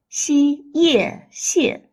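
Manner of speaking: "Xi, ye" held high, then blended into a falling "xie"; syllable blending. Shown as a demonstration. Teacher blends initial and final, high separated syllables. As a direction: sound out "Xi", "ye", then join them as "xie". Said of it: "The tone of second xie".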